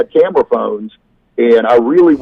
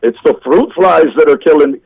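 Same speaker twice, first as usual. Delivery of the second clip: higher, hammed-up Irish lilt; Irish accent; 4 semitones higher, 3 dB louder than usual. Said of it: "That was an Irish accent".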